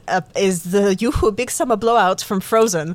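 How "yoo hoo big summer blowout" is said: lightly put-on comic German accent. Shown as a demonstration. Host quotes a Frozen line as her only accent, light German accent. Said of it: "the only German accent I can do is".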